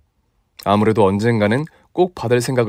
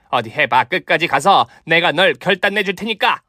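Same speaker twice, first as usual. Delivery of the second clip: gloating kung fu master voice; brag, then threaten with relish; boastful martial master; 5 semitones higher than usual. Acted. Mother boasts, threatens fight. (허세 부리는 고수)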